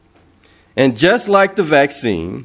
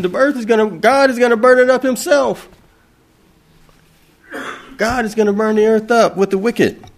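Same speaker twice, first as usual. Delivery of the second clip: fiery preaching; 7 semitones higher than usual. Real, not acted. Preaching climax on burning earth.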